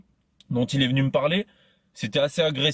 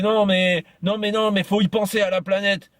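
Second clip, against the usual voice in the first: mock insistent preacher; 7 semitones higher than usual. Retold eco-preacher insisting.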